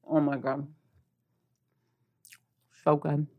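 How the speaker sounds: mouth full. Real, not acted. Tasting the muffin, mouth full.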